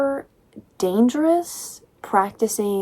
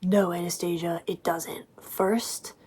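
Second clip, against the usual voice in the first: mock whisper; 7 dB quieter than usual. Mocking Christian's reply.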